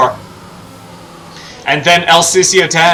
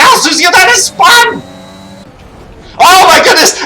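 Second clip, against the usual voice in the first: much higher, louder commentator yelling in disbelief; shocked excited shouting; 9 semitones higher, 4 dB louder than usual. Real, not acted. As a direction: scream the crash call like live TV. Race leader suddenly spins out.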